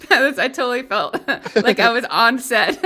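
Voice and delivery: laughing. Real, not acted. Giggling about British TV.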